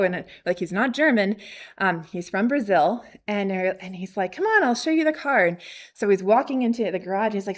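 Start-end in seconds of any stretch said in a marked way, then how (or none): 4.3-5.4 higher, quick, upbeat beckoning; friendly invitation. Retold or imitated. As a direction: imitate a welcoming seller waving guests along. Acts friendly seller inviting them.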